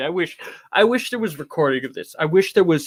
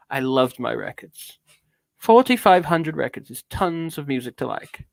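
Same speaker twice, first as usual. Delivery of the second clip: mannered British storytelling; affected theatrical British reading; British accent. Acted. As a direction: reminisce grandly in a put-on British accent. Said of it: "I'm going back to British now".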